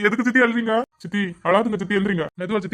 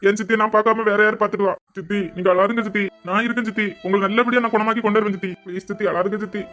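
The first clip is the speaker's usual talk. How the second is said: tearful consoling; 3 semitones higher than usual. Acted. Daughter consoling weeping stepmother.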